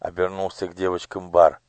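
usual speaking voice

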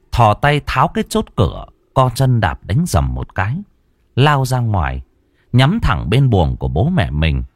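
usual speaking voice

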